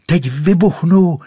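high, loud triumphant shout. Acted. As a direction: yell it as she bursts. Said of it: "křičela". (vysoký, hlasitý vítězný křik)

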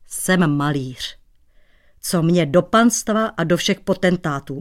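frowning. Acted. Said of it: "mračil se pocestný".

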